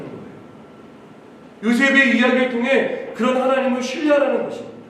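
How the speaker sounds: emphatic preaching. Real, not acted. Pastor urging the congregation to trust God's leading, emphatic preaching. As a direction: preach with conviction, phrase by phrase.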